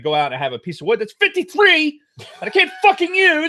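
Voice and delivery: high, loud laughing complaint; laughing exasperation. Real, not acted. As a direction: laugh through the frustration. Laughing at his misfortune.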